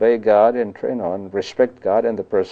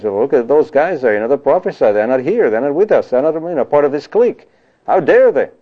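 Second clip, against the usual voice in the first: mildly outraged tattling, pitch climbing higher; indignant complaint; 5 semitones higher, 3 dB louder than usual. Acted. Young Joshua complains to Moses about outsiders prophesying, indignant. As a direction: build from complaint to an affronted, louder outburst.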